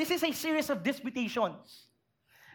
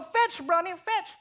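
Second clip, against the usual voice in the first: higher, playful calls to the puppy; child coaxing the new puppy to fetch, playful; child calling dog; 3 semitones higher, slower than usual. Pretend. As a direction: call the puppy like an eager kid.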